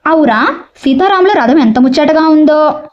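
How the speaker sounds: lightly acted admiring exclamation; mild exclamation of wonder. Shown as a demonstration. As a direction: read it as a sample exclamation of delight. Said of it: "వాక్యంలో ఆశ్చర్యం కలిగించే అర్థం వస్తే". (కాస్త ఆశ్చర్యం, మెచ్చుకోలుతో)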